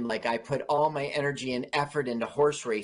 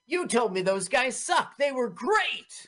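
mock boss; 8 semitones higher, slower than usual. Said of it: "is gonna say to Lord Percy".

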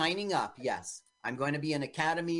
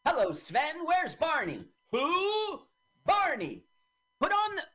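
very high, hammed-up Swedish accent; fake Swedish accent; 13 semitones higher than usual. Mocking the film's Swede asking for Barney, fake Swedish accent. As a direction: sing out a bad mock Swedish accent. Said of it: "his accent is so fake and bad. His, his Swedish accent".

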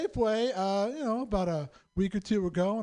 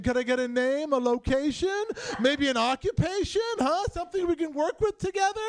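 rising higher with each question; pleading improv request; 6 semitones higher than usual. Retold or imitated. Improv student asking attacker for suggestions, mounting eagerness. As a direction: prompt eagerly, climbing in pitch.

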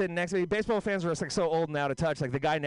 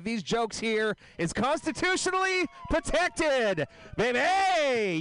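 lightly voiced swaggering boast, a bit higher; slow, cocky, ending on a higher baby; mock tough guy; 7 semitones higher, slower than usual. Comic bragging to the crowd about free speech, lightly mock cocky.

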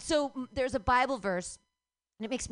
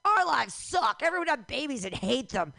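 louder, higher mock whine; mocking the protesters; 3 semitones higher, 5 dB louder than usual. Comic mocking the pro-life protesters, in a mocking whine. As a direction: sneer at them as miserable people. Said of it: "They're like".

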